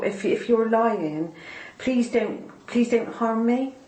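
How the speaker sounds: pleading through rising tears; a real emotional plea, fighting back tears; emotional, near tears. Real, not acted. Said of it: "I'm noticing I'm getting emotional".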